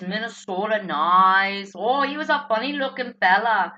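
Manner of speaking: imitating a Minnesota accent. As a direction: put on friendly Minnesota-nice talk. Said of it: "then out in Minnesota".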